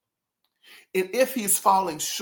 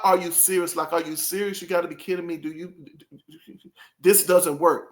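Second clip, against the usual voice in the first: annoyed disbelief. Retold or imitated. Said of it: "No, it's not that kind of".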